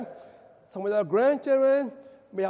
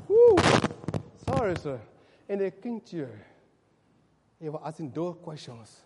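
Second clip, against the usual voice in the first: normal talking voice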